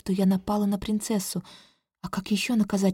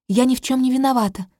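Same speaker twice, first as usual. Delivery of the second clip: higher, louder, haughty denial; 4 semitones higher, 5 dB louder, faster than usual. Acted. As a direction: answer proudly, looking down on them. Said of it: "отвечаю я несколько надменно". (надменно, громче)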